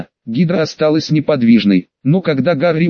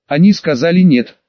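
bored hiss. Acted. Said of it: "просто прошипела она, словно ей было скучно".

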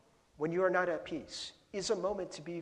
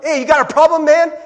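loud, high mock challenge; acted-out angry driver, raised voice; confrontational challenge; 11 semitones higher, 19 dB louder than usual. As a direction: call it out like picking a fight. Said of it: "they're like".

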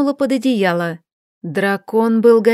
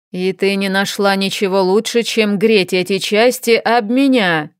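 ворчливая ругань. Acted. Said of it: "ругался Освёр".

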